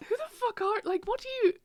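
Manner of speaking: high, laugh-cracked words; laughing while talking. Real, not acted. Telling her friend the story, laughing high. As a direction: giggle through the question.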